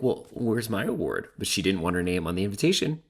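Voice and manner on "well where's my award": slow, put-on voice for Kelly's complaint; mock Kelly whining. Predicting Kelly demanding her award, slow put-on whine. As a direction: drag it out like a snubbed guest. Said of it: "She's gonna be like".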